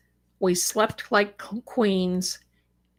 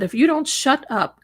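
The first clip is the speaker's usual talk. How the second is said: lightly imitated cop's warning, higher pitch; stern cop; 5 semitones higher, 3 dB louder than usual. Cop warning the screaming man, lightly mimicked stern order. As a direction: retell the officer's threat with a higher, emphatic push. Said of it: "I don't talk like that, but the cop did".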